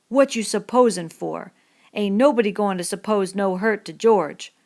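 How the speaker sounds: menacing. A narrator's reading. Lenny menacing Crooks.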